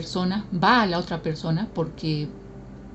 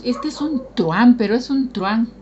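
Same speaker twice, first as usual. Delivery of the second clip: mock scolding; 4 semitones higher, 6 dB louder than usual.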